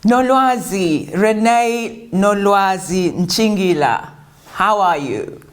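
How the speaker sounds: slow, drawn-out announcement of the name; formal welcome. Acted. Host welcoming the guest on, slow formal greeting. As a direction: present the guest by name, savouring each part.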